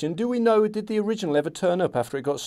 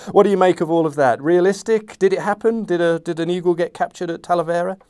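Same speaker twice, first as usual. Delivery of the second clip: excited laughing question; 4 dB louder than usual. Real, not acted. Excited after the reading.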